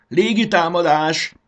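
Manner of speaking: high, loud, stretched-out war cry; attack shout. A narrator's reading. Fanny launches tomatoes at the caterpillar, shouting the attack. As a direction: call the attack out long and loud. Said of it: "kiáltotta Fanny".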